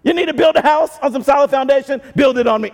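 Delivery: strut it like the one with the keys; cocky Peter. Retold or imitated. Peter showing off to the disciples, cocky and high. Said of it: "He was feeling like".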